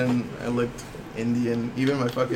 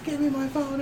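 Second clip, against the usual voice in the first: accusing lady; 10 semitones higher, 7 dB quieter than usual. Retold or imitated. Homeless lady accuses the clerk of stealing, high mock demand. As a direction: imitate an angry accuser in a raised pitch.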